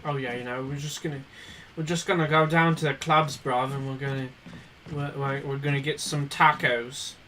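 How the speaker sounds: a light mock British lad; British accent. British accent for friends going to the clubs. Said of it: "say the word bruv".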